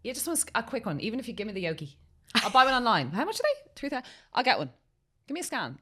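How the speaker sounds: high, fast put-on voice begging for a scan; mock pleading patient. Mimics staff and her pleading self.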